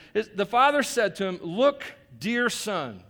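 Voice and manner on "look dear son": slow, tender father's plea. Acted. Father soothing his ranting son, slow and tender. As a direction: say it gently, drawn out. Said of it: "tender terms here".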